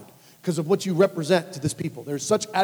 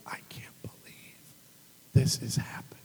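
awed whisper; 6 semitones lower, 10 dB quieter than usual. Retold or imitated. Holding the radio microphone for the first time, an awed whisper. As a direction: whisper it, overwhelmed.

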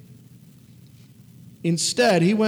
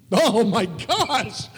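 shocked; 5 semitones higher, much slower than usual. Real, not acted. Shocked reaction to verse.

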